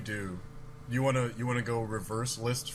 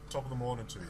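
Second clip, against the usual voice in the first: shitty English accent; 4 dB quieter, faster than usual. Shown as a demonstration. American host obliging co-hosts on request, shaky-quality English accent. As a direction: try a modest, amateur English accent. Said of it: "in my shitty English accent".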